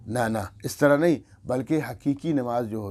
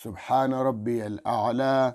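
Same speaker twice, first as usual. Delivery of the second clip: slow, stretched "سبحان ربی الاعلی"; slow tasbih; slower than usual. Shown as a demonstration. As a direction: say it calmly. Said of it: "آرام سے". (آہستہ ٹھہر کر تسبیح)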